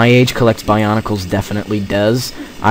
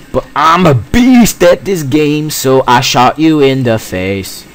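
mock boast; 3 semitones higher than usual.

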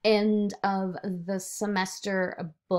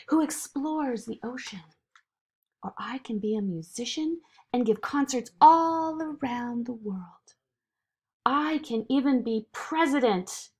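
lightly voiced eager girl, quick at first; Zoe, eager child; 4 semitones higher than usual. Zoe ignoring the voice to dream, lightly eager. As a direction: rattle off a dream with enthusiasm.

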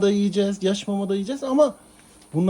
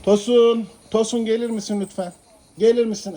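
a raised call to a cat across the room. Real, not acted. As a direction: call out to the pet. Owner calling the cat.

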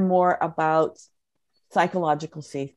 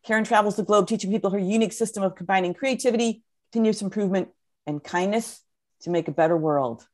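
rushing, running out of breath; fast, breathless list reading; faster than usual. Real, not acted. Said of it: "now I gotta catch my breath a second".

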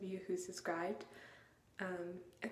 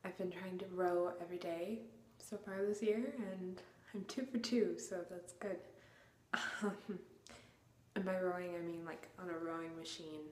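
talking in an echoing room; echoey room. Real, not acted. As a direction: voice bouncing off bare walls. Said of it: "it's really echoey in here".

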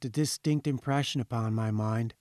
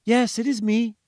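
louder and higher, a triumphant cry; triumphant shout; 9 semitones higher, 5 dB louder than usual. A narrator's reading. Mother answering her child on the phone, triumphant shout. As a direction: call out in relief as if found. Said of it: "she shouted triumphantly".

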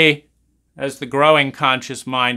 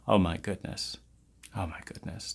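fading sigh; 6 semitones lower, 11 dB quieter than usual. Acted.

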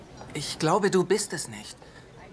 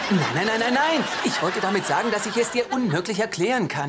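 flustered denial; 5 semitones higher, 4 dB louder than usual. Acted. Panicked denial in quarrel.

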